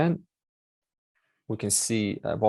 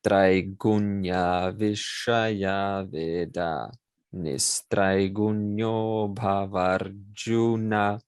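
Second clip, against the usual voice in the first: very slow, syllable by syllable chanting; teacher slowing the verse down for students; slowed recitation; much slower than usual. Shown as a demonstration. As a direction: draw each syllable out slowly. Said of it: "if I slow that down".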